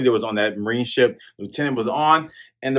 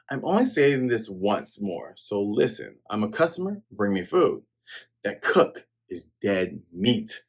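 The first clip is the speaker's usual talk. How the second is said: quiet threat; 4 semitones lower, 5 dB quieter than usual. Retold or imitated. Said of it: "the lieutenant says".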